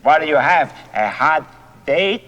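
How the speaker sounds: teasing put-on voice. Man ribbing his friend about a date, in a teasing silly voice. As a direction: tease in a silly voice, lifting the last word.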